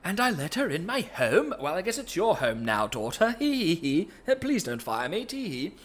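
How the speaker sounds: high, lightly voiced dad going giddy; hammed-up father, giggling nervously; mock shocked dad. Father learning the truth from his daughter, hammed-up giggle. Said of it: "And it's like".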